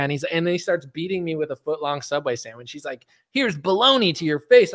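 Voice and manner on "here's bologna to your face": mock attacker. Voices attacker striking with sandwich.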